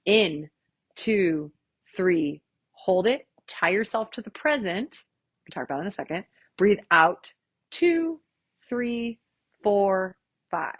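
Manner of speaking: slow guided counting; calm instructor count; counting breaths. Shown as a demonstration. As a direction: lead the breathing, unhurried.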